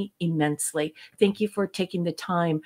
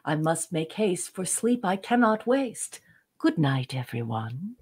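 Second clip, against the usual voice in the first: measured recital of a rhyming poem; poem reading. Acted. Cohost reads a listener's good-night poem to the audience, recital. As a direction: recite it gently like a bedtime verse.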